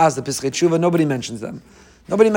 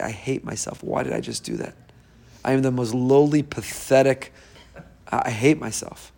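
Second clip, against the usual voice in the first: self-loathing voice; 3 dB quieter than usual. Retold or imitated. Rabbi voicing the Yetzer Hara's self-hatred, softly miserable. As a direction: mutter it like you despise yourself. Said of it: "that's the voice of the Yetzer Hara".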